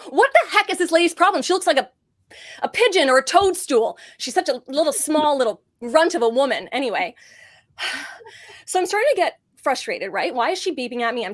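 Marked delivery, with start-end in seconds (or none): 0.0-6.7 loud, higher, fed-up ranting at the driver; exasperated rant. Retold or imitated. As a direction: vent about the honking lady. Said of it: "And I'm like".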